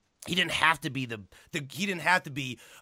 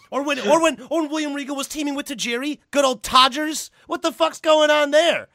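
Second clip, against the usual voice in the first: excited; 11 semitones higher, 8 dB louder than usual. Real, not acted. Gushing about Regal and Tajiri.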